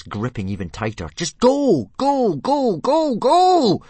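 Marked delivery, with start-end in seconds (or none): 1.1-3.8 high, loud frantic screams; desperate rising yells; screaming. Acted. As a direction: scream it louder each time. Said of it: "screamed Hiccup".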